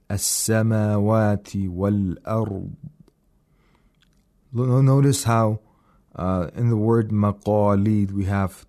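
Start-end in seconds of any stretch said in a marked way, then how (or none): 0.1-2.7 thin, light السماوات, then heavy ر and ض in والأرض; light and heavy letters. Shown as a demonstration. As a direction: keep السماوات unemphatic and darken والأرض. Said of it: "no tafkhim in the word samawat".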